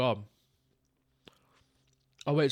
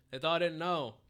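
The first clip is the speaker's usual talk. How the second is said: mock crying; 6 dB quieter than usual. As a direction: fake whiny sob. Repeats line as mock sob.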